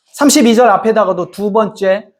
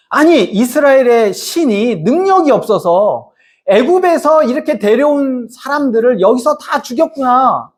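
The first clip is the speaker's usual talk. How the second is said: higher-pitched imitation of jeering onlookers; mock scoffing; 4 semitones higher than usual. Egyptians scoffing at Israel's God, mildly mocking. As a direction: lightly act out a scornful jeer. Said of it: "애굽 사람들이 다 비웃을 겁니다".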